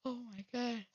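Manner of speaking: short of breath, puffing; gasping for air between words. Real, not acted. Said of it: "I cannot catch my breath".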